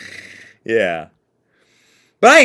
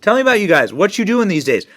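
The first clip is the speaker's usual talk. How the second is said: Joe Biden impression; 5 semitones higher, 3 dB louder than usual. Repeats Biden clip mockingly.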